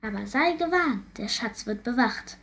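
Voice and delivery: high, sighing voice of a cursed ghost; mournful ghost. Acted. Ghost lamenting his curse to the princess, high and mournful.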